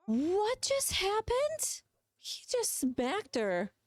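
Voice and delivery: high, slow breathless whisper; shocked whisper. Real, not acted. Watching her sim get slapped, a stunned whisper.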